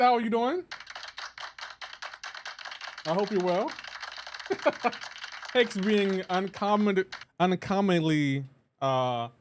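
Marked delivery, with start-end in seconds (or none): 3.8-5.5 breathy, mostly voiceless chuckle; airy laugh. Real, not acted. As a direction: chuckle to yourself. Laughs at silent viewer.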